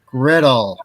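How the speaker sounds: GRIDDLE said loud, on its own; emphatic correction. Real, not acted. Speaker correcting a misheard word, loud emphatic GRIDDLE. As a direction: say GRIDDLE loudly and distinctly.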